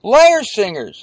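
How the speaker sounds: high, hesitant acted quote; John's voice. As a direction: play John groping for an explanation. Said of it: "So he says".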